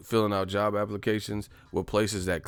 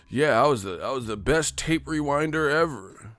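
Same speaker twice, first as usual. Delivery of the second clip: higher, boastful put-on voice; proud tape rewinder; 6 semitones higher than usual. Ex-clerk bragging to the streamer about rewinding tapes, boastful. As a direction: brag like a proud old video store clerk.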